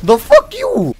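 loud, high-pitched outraged shout; indignant yell. Real, not acted. Gamer to an opponent who melees him, indignant yelling. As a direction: shout in affront, pitch leaping up.

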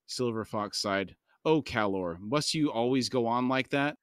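steady audiobook reading voice; calm novel narration; story narration. A narrator's reading. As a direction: read the chapter aloud, even and measured. Reads novel aloud to podcast.

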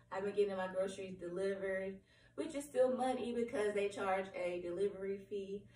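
hoarse, cracking voice; a lost voice that keeps cracking. Real, not acted. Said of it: "I'm sorry if my voice is cracking".

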